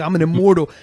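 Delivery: loud, proud declaration; the retold fighter shouting that he is immortal; triumphant boast. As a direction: proclaim it like a fighter who can't lose. Tyson's climax boast retold.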